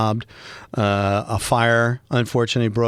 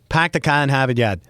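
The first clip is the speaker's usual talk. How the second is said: quick, natural Boston accent; Boston accent tossed off like a local; real Boston accent. Shown as a demonstration. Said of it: "That's the way to do it".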